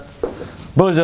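imitating a rushed, slurred blessing; mispronounced gabble. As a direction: run the words together into gibberish. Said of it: "every single word was mispronounced".

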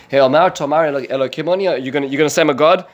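loud, mocking challenge; sarcastic. Prophet taunts the ruler who calls himself a god, sarcastic. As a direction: throw it out as a sarcastic question, quickening at the end. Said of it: "you see, hear the sarcasm".

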